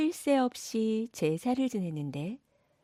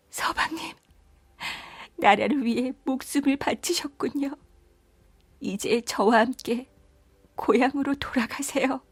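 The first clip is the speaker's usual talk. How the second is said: higher, tearful-sounding wife's lament; grieving princess; 3 semitones higher than usual. Acted. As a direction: speak tenderly to your dead husband. Princess mourns her dead husband.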